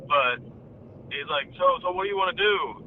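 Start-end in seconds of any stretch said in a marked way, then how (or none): 1.6-2.8 lightly imitated panicky question, pitched a bit higher; nervous, voice breaking. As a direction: retell his nervous question with a mild upward waver. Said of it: "voice is breaking".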